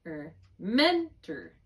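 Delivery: "mentor" said slowly, MEN stressed; teacher to student: stretch out "mentor" to show the stress; slow stress demo. Shown as a demonstration. Draw out "mentor" slowly. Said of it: "the accented position or the unaccented position?".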